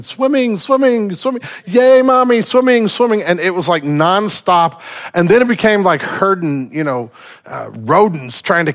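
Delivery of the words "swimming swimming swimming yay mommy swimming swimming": put-on high, loud squealing child voice; excited little girls. Daughters cheering to mommy about swimming, high excited squeal. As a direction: squeal it like a toddler at a pool.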